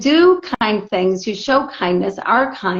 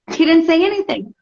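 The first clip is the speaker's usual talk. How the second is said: higher, indignant retelling; pitched-up indignation at the husband; 5 semitones higher than usual. Retold or imitated. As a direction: tell it with rising outrage.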